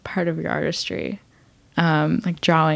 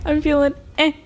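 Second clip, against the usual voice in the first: meh noise; 9 semitones higher than usual. Real, not acted. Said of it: "What is that noise?".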